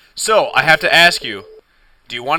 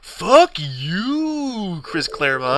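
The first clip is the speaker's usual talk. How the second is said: much higher mock-furious "Fuck you"; angry retort; 4 semitones higher, much slower than usual. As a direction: spit it back at the author. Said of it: "And you're just like".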